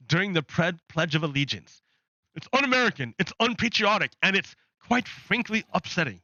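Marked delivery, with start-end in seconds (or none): 2.4-6.2 high-pitched mock indignation; mock outrage. Panel melting down over a student saying Allah, mock outrage. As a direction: put on a scandalized pundit's complaint, higher.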